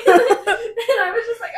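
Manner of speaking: laughing through the words; cracking up mid-sentence. Real, not acted. Laughing hard while telling story.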